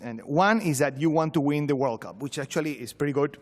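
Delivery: usual speaking voice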